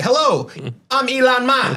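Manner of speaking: a light put-on Asian accent for the bit; mock Asian accent. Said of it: "he's just like".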